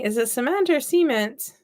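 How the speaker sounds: "cement" first suh-MENT, then "cement?" SEE-ment; two cement pronunciations. Shown as a demonstration. Counselor questions herself, "cement" suh-MENT versus "cement?" SEE-ment. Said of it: "it made me question".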